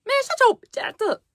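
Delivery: high mocking imitation of a slow-talking man; imitating Don. Mimicking Don telling her to shut up, high and mocking. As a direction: mimic him sounding slow and dumb. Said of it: "he sounds so slow".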